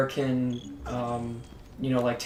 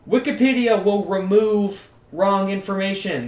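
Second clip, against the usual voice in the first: emphatic; 6 semitones higher, 7 dB louder than usual. Real, not acted. Heated defence of Wikipedia.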